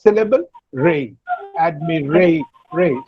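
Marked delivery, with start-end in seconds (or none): 1.6-3.0 "Admi-" then "ray" set apart and repeated; single out "ray" after "Admi-"; stress on RAY. Shown as a demonstration. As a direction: isolate the stressed "ray" and say it twice. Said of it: "the stress should be on ray".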